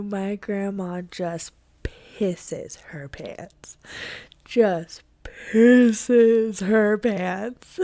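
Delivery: slow, breaking into laughter; can barely get it out for laughing; real laughter over slow words. Real, not acted. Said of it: "And I'm just dying".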